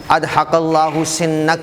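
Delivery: اضحک اللہ سنک spelled out word by word, very slowly; slow hadith recital. Shown as a demonstration. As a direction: recite it slowly so the class can catch each word. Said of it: "حدیث میں حضور کے کلمات".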